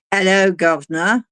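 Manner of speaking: playful mock-Cockney greeting; Cockney accent. Host teasing Scotty who is now British, Cockney accent.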